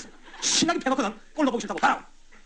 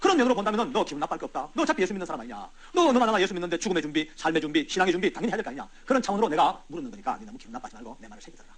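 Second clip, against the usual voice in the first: soothing coax. Retold or imitated. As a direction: gently talk him round. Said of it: "달랬죠".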